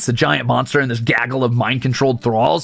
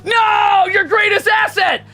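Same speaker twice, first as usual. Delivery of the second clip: much higher, loud hammed-up wail; mock dismay; 4 dB louder, slower than usual. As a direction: cry out over a ridiculous loss. Mock dismay at lost costume.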